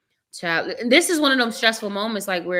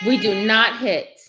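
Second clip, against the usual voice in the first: firm loud scolding; 6 dB louder, slower than usual. Real, not acted. Scolding son for hitting.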